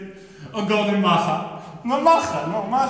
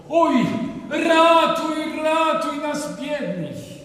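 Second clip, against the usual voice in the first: pleading; 5 semitones higher, slower than usual. Acted. Villagers beg Francis.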